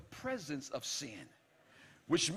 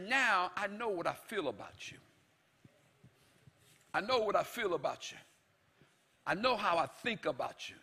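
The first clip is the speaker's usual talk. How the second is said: tender God. Acted. God speaking tenderly to his wayward bride. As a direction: gently tell her how he feels. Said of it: "God is trying to say".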